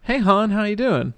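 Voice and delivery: sing-song Baltimore accent; Baltimore greeting. Shown as a demonstration. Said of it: "they say "hon" a lot".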